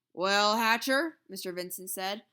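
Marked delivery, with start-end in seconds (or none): 0.1-1.2 loud, slow demand; pushy boss. A narrator's reading. The boss cornering the father, loud and slow. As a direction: press him for an answer.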